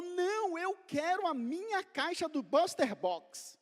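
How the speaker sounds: put-on high, slow, whiny child demand; a boy refusing to give in; insistent child. Son rejecting headphones, demanding his box: high whiny insistence.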